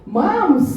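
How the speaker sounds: "Mams" dengan s panjang, nada lebih tinggi dan keras; drawn-out Mams. Retold or imitated. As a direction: tirukan anak memanggil "Mams" dengan desis s yang dipanjangkan. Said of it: "S-nya banyak". (meniru anak kedua memanggil ibunya, "Mams" dengan s panjang)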